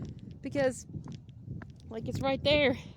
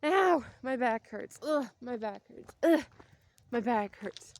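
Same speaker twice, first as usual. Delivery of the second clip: slow, groaning complaint about an aching back; older coworkers complaining all day, mildly mock groaning; slower than usual. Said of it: "what I hear all day".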